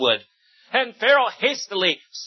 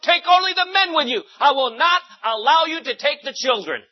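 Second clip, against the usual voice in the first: angry king; 7 semitones higher than usual. A narrator's reading.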